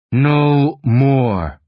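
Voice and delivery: firm, drawn-out warning without shouting; stern command. A narrator's reading. Dad halting his fighting children, stern command. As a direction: stop them dead with two measured words. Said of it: "his tone stops us dead".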